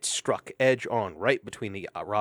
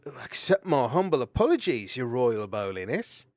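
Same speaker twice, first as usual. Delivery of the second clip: mock humble; 2 semitones higher, 5 dB louder than usual. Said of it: "look of mock fear and bowed".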